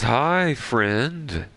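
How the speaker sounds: very high cartoon greeting; SpongeBob. SpongeBob going up to a fish, high cartoon voice. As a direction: pitch way up, stretched friendly hello. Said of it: "he goes up to a fish".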